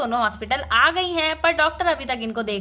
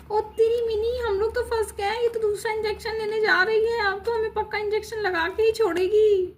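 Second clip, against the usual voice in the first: higher voice, alarmed and worried; we're caught, now we're trapped; panicked child; 6 semitones higher than usual. Acted. Child tells her sister they are trapped, panicky and higher.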